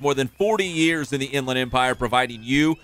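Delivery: upbeat sponsor read, punchy pitch; radio ad read. Acted. Host reading the sponsor spot, upbeat ad read. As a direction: sell the sponsor to listeners.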